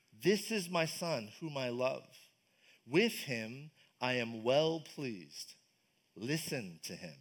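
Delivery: a hushed, solemn voice of God the Father. Retold or imitated. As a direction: speak as God from the cloud, slowly and softly. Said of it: "the voice of God the Father, said".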